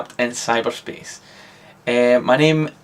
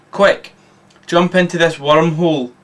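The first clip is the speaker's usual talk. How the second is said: yell; 3 semitones higher than usual. Acted. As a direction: hurry them into the wormhole. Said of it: "he yells".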